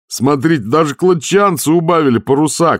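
high, loud call over the wind; shouting. A narrator's reading. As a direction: yell it out pointing. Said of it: "крикнул Дженкинс". (шкипер кричит Ваймсу сквозь бурю)

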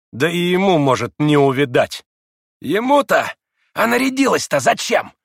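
high, loud mocking jibe; snide teasing. A narrator's reading. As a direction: needle her with spiteful teasing. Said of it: "ехидно поддразнил Ракитин".

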